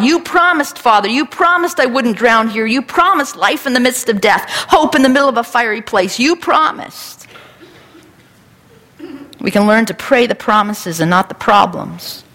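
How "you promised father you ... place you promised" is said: higher, earnest plea to God; pleading prayer. Retold or imitated. Preacher praying God's promises back to him, pleading. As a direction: hold God to his word, pleading. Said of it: "I'm learning to pray these verses back to God".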